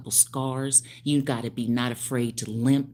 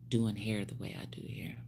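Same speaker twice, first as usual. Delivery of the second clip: whispered boast; 2 semitones lower, 6 dB quieter than usual. Real, not acted.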